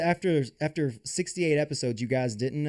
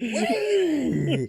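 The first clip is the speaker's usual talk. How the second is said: excited whoop; 4 dB louder than usual. Retold or imitated. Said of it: "he was like".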